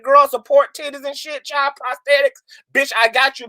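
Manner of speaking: high, excited hype, promising anything; hyped-up offering. Pretend. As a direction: gush like a fairy godmother offering cash. Mock offering to fund everything.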